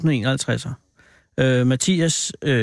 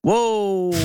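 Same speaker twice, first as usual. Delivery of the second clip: surprised wow; 6 semitones higher than usual. Real, not acted. Host reacts to boyfriend news.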